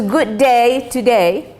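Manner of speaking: "Good day today," with the vowels slanted Australian-style, "day" like "die". Shown as a demonstration. Teacher mimicking the Australian slant for students. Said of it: "they really slant it".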